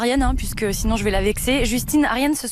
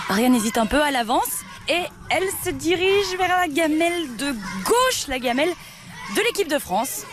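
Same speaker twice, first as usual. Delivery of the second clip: excited play-by-play, higher; mock sports commentary; 4 semitones higher than usual. Shown as a demonstration. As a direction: call it like a live match commentator. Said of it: "en mode commentateur, euh, sportif".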